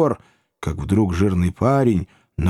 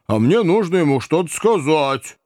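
put-on the boy; 6 semitones higher than usual. A narrator's reading. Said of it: "отвечал парень".

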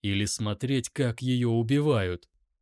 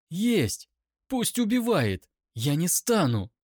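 higher, forceful cry of refusal; defiant outcry; 7 semitones higher than usual. A narrator's reading. Captive woman refuses to give in, defiant outcry. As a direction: throw the refusal back at them.

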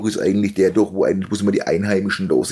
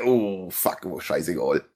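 muttered resignation; 3 semitones lower, 6 dB quieter, slower than usual. Retold or imitated. Acts out his thought after embarrassment.

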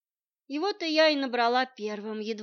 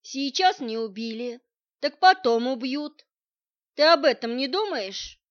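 alarmed insistence; 3 semitones higher, 8 dB louder than usual. A narrator's reading. Friend pleads, she is in danger.

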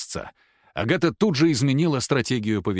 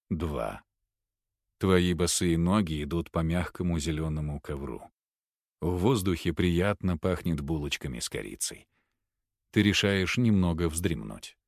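hypnotic induction; 5 semitones lower, 4 dB quieter than usual. Acted. Hypnotist leading a patient into trance, low and soft. Hypnotist counts, gives suggestions.

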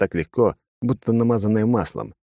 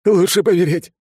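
hysterical yell; 12 semitones higher, 6 dB louder than usual. Acted. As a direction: shriek in blind panic. Father threatening to jump.

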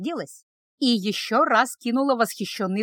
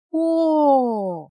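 breathless higher oh of wonder; awed oh; 4 semitones higher, 4 dB louder than usual. A narrator's reading. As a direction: gasp it out in amazement. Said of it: "только и смогла протянуть она".

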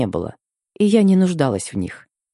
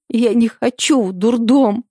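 sobbing whisper; 9 semitones higher, 3 dB louder than usual. Acted. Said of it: "прошептала я, всхлипывая и стуча зубами".

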